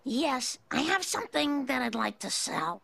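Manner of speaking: Marge Simpson impression. Friend doing Marge for the group, slightly off. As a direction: try on Marge's voice, not quite there. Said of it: "now is Marge Simpson".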